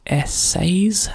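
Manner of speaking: a questioning whisper to self; whispered guess. Real, not acted. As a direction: try the word in a whisper.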